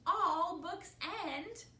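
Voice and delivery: loud, high, stretched storybook voices; urgent exchange. A narrator's reading. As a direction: call it out with mounting urgency. Characters fret over book ending.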